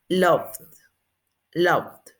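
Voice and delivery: LOVED in one syllable, V plus D. Shown as a demonstration. Teacher modelling the past, -ed as D. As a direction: close LOVED on D without a vowel. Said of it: "va a ser con D".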